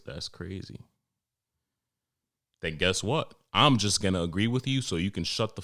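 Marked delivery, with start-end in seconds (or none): 0.0-0.8 quiet, flat, uninterested "that's crazy"; flat monotone. Shown as a demonstration. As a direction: say it dead flat to end the chat. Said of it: "in my monotone voice".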